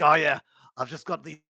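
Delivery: half-hearted attempt at Scottish accent; badly faked Scottish accent, giving up; failed Scottish accent. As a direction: try and fumble a Scottish accent. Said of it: "I can't do a Scottish accent".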